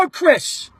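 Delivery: retold holler to get a player's attention. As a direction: call out across the stands. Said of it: "I holler out".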